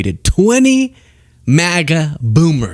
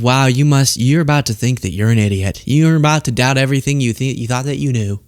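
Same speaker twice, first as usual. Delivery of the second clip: smug pride mock. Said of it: "with this level of pride".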